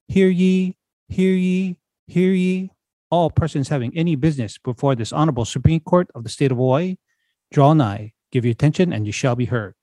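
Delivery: ceremonial court crier call; town crier. Acted. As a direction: proclaim it like a court bailiff. Court crier opening the session.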